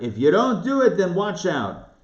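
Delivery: mildly mock fire-and-brimstone preacher; fire-and-brimstone warning. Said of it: "not a fire and brimstone type".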